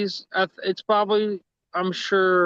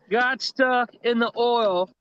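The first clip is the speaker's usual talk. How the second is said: a light imitation of a country drawl, slow; country accent; slower than usual. Imitating a country man reading a paragraph in his accent. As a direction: drawl "got stuck in the oil" slowly, lightly mocking. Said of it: "say it without your accent".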